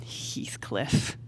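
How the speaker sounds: breathy whispered name; low whispered Heathcliff. Acted. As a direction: whisper his name into the dark room. Addressing the ghost privately.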